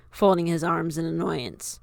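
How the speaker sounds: ordinary delivery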